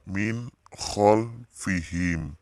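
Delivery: MIN KHOLFIHIM slow, with distinct n; clear recitation. Shown as a demonstration. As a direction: model min kholfihim slowly, each sound separate. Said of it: "Nah, dibacanya".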